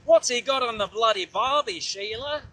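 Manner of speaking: hammed-up Aussie accent, rising pitch; terrible Australian accent. Rider doing funny accents on the bike, hammed-up Australian accent. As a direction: put on a bad Australian accent. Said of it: "my terrible Australian accent".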